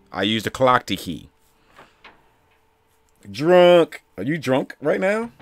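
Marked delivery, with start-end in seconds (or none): 3.3-5.3 loud, high-pitched disbelief; shocked yell. Real, not acted. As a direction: blurt it out in shock. Startled reaction to game.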